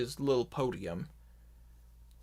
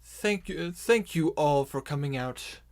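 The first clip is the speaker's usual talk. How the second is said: orc leader's speech; 6 dB louder than usual. Acted. Voodoo Rook addresses the orcs.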